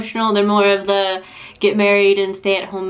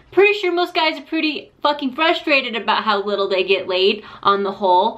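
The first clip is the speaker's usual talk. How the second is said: ordinary talk, nothing marked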